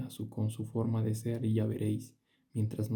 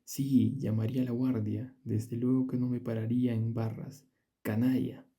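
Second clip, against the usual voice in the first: louder, mock-indignant outburst; playful loud threats; 3 dB louder than usual. Favorit teasing Blachevelle, mock-furious and louder. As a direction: fling the threats at him, half joking. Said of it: "Favorit siguió diciendo".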